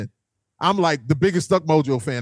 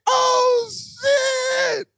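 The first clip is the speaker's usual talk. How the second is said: much higher, shouted "oh shit" in mock shock; retold shocked shout. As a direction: yelp it out like you just got spotted. Retold shout on being recognised.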